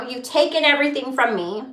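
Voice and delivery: pleading with God. Real, not acted. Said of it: "I'm speaking to Jehovah right now".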